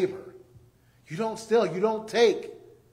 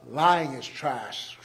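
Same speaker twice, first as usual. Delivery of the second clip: low, slow whispered aside; stage whisper; 6 semitones lower, 3 dB quieter, much slower than usual. Acted. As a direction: lean in and whisper it like a secret. Preacher whispers punchline.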